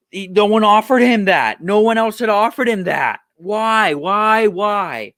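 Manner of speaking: like a fired-up sports talk host demanding an answer; ranting. Real, not acted. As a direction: Stephen A style outburst. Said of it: "There's my rant".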